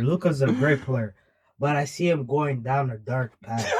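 low, ominous villain voice; anime villain voice. Acted. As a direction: deliver it like a brooding anime villain. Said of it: "Why you talking like an anime villain?".

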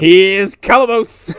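slow, drawn-out Here's Johnny menace; Jack Nicholson impression. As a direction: stretch it out like The Shining. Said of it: "Jack Nicholson-esque".

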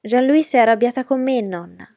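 loud, high tattling yell, dropping on the last word; crying out. A narrator's reading. Boy telling grandmother on his cousin, crying out. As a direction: shout a complaint to grandma. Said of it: "gridò Francis".

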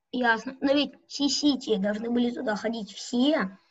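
usual speaking voice

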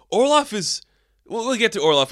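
excited. Real, not acted. High-pitched reply to viewer.

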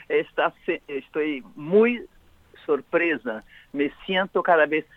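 portuñol, Spanish with Brazilian Portuguese accent; Portuguese Spanish mix. Real, not acted. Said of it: "desculpa primero mi portuñol".

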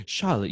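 Charlotte with a rolled, trilled R. Retold or imitated. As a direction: roll the R in Charlotte. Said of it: "he, like, really rolled the R's".

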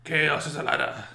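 put-on whispered Irish-Welsh accent; creepy Irish-Welsh whisper; Littlefinger's accent. Quoting Littlefinger's motto, whispered Irish-Welsh accent. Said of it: "It's Irish slash Welsh".

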